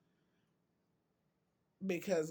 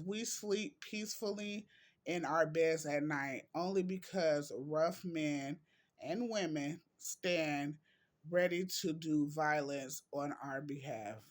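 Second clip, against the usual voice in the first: deliberate, phrase-by-phrase reading; quote reading. Acted. Vlogger reads viewers a quote on soldiers, deliberate reading. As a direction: read it out with weight on each phrase.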